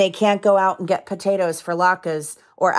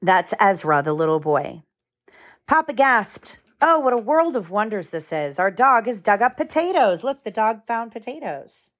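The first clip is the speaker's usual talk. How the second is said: gentle storybook read-aloud; lively picture book narration with voices; reading to children; 2 semitones higher than usual. A narrator's reading.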